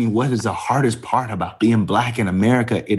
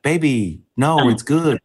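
comforting husband; 5 semitones higher than usual. Retold or imitated. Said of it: "Trying to comfort her".

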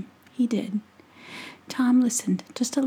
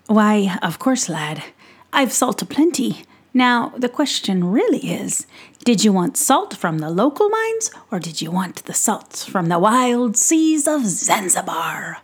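louder, hearty merchant voice; jolly pixie peddler; 4 dB louder than usual. Acted. Peddler teasing young Tom about salt, hearty and louder. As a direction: sell it like a showman at his cart.

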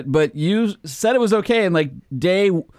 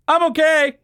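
higher, louder chipper voice; dazed driver impression; 12 semitones higher, 3 dB louder than usual. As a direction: play the shaken driver acting fine. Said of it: "wipes off the lens and goes".

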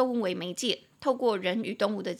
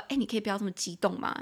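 teasing friend; faster than usual. Pretend. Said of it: "你想要跟他开玩笑".

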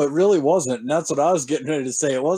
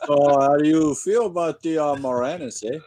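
mock Canadian accent; 3 semitones higher than usual. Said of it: "I can't do the accent".

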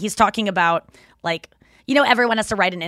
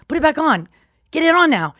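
higher, pushy demand; 6 semitones higher, 4 dB louder than usual. Retold or imitated. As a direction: insist like a bratty animal. Dolphin demanding tail back.

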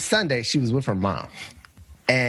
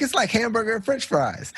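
naive high explanation; 11 semitones higher than usual. Retold or imitated. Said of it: "I was like".

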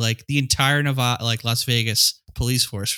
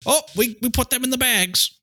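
high-pitched mock excuse voice; high, hammed-up cover story; 11 semitones higher than usual. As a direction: pitch it way up, offering a silly excuse. Voicing the lame excuse for missing bodies.

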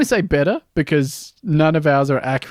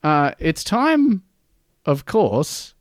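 announcer; much slower than usual. Acted. Announcing the show segment.

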